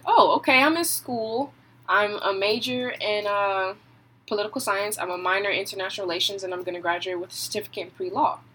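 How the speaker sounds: rattling off her résumé, partly rushed; imitating how she sounds listing her plans; mock self-rundown. Mimicking herself telling people about school and work, brisk rundown. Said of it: "let me tell you how I sound".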